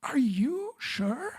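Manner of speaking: very slow whispered question with a laugh; hushed doubtful. Retold or imitated. The American woman asks again, whispered and slow. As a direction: whisper it, stunned. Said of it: "bem sério, e falou assim".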